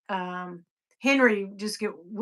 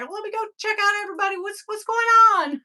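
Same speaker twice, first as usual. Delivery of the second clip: high, quick burst of curiosity; eager self-mimicry; 12 semitones higher, 4 dB louder, faster than usual. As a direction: act out rushing to catch up on everyone. Mimics herself checking notifications.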